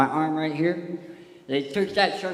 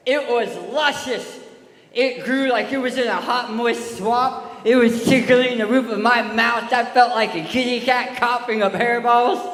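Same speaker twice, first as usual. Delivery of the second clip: animated storytelling; 3 semitones higher, 5 dB louder than usual. Acted. Gross-out tale told to kids.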